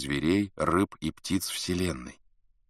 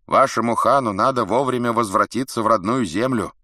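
loud, higher-pitched proclamation; beast's cry; 5 semitones higher, 6 dB louder than usual. A narrator's reading. Strange beast cries to the Mongol warriors, loud and high. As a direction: call it out as a warning. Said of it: "Этот зверь прокричал нам".

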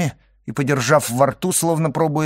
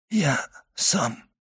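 laboured answer; 4 semitones higher, 5 dB quieter than usual. A narrator's reading. Stricken servant answers with effort.

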